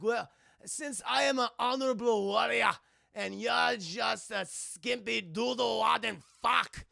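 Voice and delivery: mock-pompous Scottish insult, with breaks; tired Scotsman. Scotsman offering Jack a truce, tired bluster. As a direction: imitate a worn-out Scot saving face. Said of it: "they're just so fucking tired".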